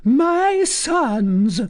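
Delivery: very high falsetto address; high, piping storyteller. A narrator's reading. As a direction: jump right up into falsetto to address the listeners. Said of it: "in a falsetto voice".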